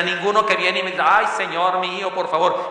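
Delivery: "Ay, Señor mío, por favor" whined as a mock plea; mild mock whiny pleading; mocking ironic plea. Shown as a demonstration. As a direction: parody a pleading believer, lightly. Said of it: "es una ironía".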